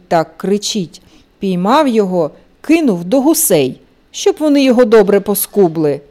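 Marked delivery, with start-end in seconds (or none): none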